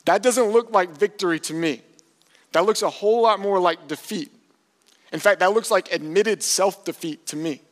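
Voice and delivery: loud, high-pitched disbelief; forceful, emphatic incredulity; incredulous preaching. Real, not acted. Preacher rejects this as victory.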